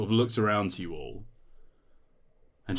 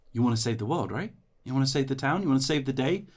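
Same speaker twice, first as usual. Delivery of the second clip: rallying companion; 6 semitones higher, 4 dB louder, faster than usual. Acted. Companion rallies the hero.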